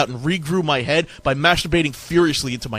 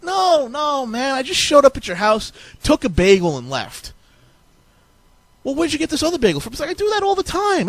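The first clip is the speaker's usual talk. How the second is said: Satan voice; 10 semitones higher than usual. Acted. Satan explains bagel stealing.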